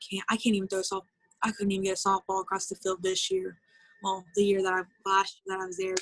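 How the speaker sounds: retold crying. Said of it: "I would start crying".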